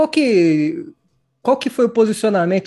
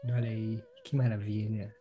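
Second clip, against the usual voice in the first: very soft, low seductive murmur; sultry narrator; 8 semitones lower, 10 dB quieter than usual. Pretend. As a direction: breathe it out like a love-song host. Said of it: "tô ficando constrangido com essa sua voz aí".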